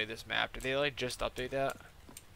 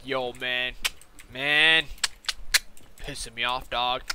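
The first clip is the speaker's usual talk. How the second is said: mock mad rant; 4 dB louder, slower than usual. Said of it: "that dumb shit when they're mad".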